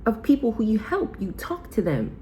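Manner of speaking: hyped-up cheer. Retold or imitated. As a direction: gush at her like an excited best friend. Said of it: "I said".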